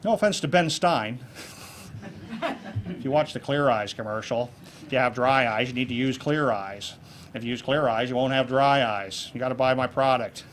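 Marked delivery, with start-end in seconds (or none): 4.8-10.4 lightly done droning monotone. Retold or imitated. Speaker lightly imitating Ben Stein's monotone ad, droning. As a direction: drone each word evenly like Ben Stein. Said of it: "if you talk like that and you're in a monotone".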